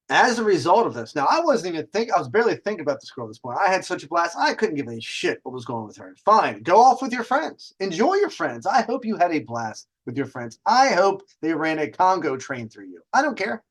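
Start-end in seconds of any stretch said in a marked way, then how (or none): 6.2-13.6 dismissive attitude. Retold or imitated. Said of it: "this is the attitude I had at this point".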